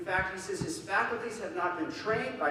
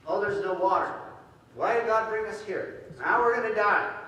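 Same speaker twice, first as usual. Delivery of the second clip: louder mock whine of grumbling people; whining complaint; 2 semitones higher, 6 dB louder than usual. Preacher voicing the Israelites complaining to Moses, loud whining. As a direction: whine it like a crowd fed up in the desert. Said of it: "they were really whining and complaining".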